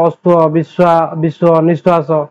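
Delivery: ଅଶ୍ୱ, ବିଶ୍ୱ, ନିଶ୍ୱାସ said slowly, the ୱ sounding like ଉଅ; careful example words. Shown as a demonstration. Teacher sounding out example words to students, slow and careful. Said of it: "ଯେମିତି ଉଅ ପରି ଉଚ୍ଚାରଣ".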